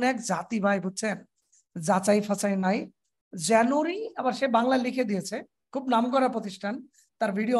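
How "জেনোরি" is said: জানুয়ারি as "JE-no-ri", higher and rising; mocked mispronunciation. Teacher quotes a famous institute's video, mocking "jenori". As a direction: shorten জানুয়ারি to three syllables, "jenori". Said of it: "এটা নাকি উচ্চারণ".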